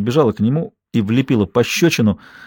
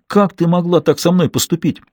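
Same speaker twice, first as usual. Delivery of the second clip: yelling; 7 semitones higher than usual. A narrator's reading. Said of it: "заорал он".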